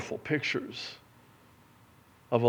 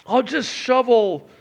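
slow, loud, high offer from the son, lightly voiced; penitent son; 12 semitones higher, 10 dB louder than usual. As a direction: offer to work off the shame. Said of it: "He was rehearsing".

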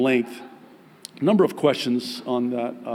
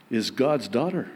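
ordinary talk, nothing marked

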